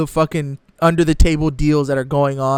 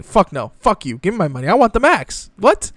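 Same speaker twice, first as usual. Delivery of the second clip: mock greedy player. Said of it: "all those people are gonna say".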